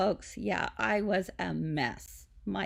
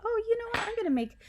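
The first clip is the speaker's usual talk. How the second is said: excited idea; 3 semitones higher, faster than usual. Retold or imitated. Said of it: "and I thought".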